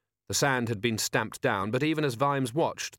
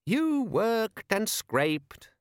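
put-on much higher, very slow, tired boy; weary boy; 11 semitones higher, much slower than usual. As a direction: drag it out, bored lad. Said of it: "said Les wearily".

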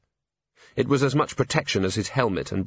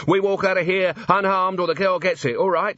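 snarled threat; 9 semitones higher than usual. Acted. Robber holding Angua, snarling at the watchmen. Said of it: "he snarled".

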